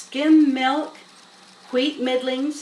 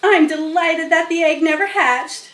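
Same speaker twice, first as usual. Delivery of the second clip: high, louder chattering goose; gabbling goose; 6 semitones higher, 7 dB louder than usual. Acted. Goose boasting to the other animals, gabbling. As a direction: gabble it out proudly. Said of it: "she gabbled".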